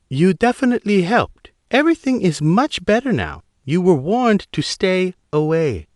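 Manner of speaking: put-on a sarcastic Chinese officer, thick accent. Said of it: "her accent thick".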